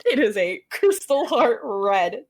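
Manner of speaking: "It is a crystal heart red" drawn out slowly, every word weighted; slow emphatic spelling-out. Shown as a demonstration. Setting a firm limit for her co-host, slow and emphatic. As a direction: lay down the rule, one word at a time. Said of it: "my firm, hard limit".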